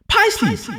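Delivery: high sharp call across the room. Acted. Teacher calls out a name.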